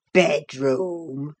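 deep Yorkshire voice throwing the word back in scorn; low, broad mockery of the fancy word; mocking echo. Old servant mocking the guest's demand for a bedroom. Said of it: "he repeated in a tone of mockery".

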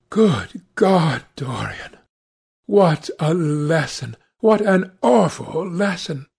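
understated horrified exclamation; appalled Hallward. Acted. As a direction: lament gravely, dropping away on the name.

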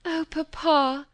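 slow, high pleading cry; a daughter pleading with her father, tearful; crying plea. A narrator's reading. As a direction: beg him through tears. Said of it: "crying and clinging to him".

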